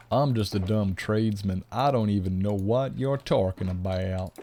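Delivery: a clumsy stab at an American accent; butchered American accent. Shown as a demonstration. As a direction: try an American accent and miss. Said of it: "butchered American accent just then".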